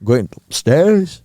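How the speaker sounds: imitation Yorkshire accent. Shown as a demonstration. Friend shows off Yorkshire phrases, Yorkshire accent. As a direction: play at broad Yorkshire speech. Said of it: "like, a Yorkshire accent".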